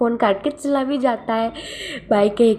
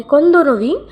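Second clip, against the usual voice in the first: higher and louder, a startled demanding question; sharp jealous surprise; 7 semitones higher, 6 dB louder than usual. Acted. Boss on the phone, shocked to hear Wing isn't alone, demanding.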